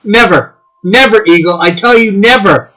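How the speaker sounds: playful put-on voice denying it; teasing Eagle in a put-on accent; mock denial in an accent. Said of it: "are you doing accents again".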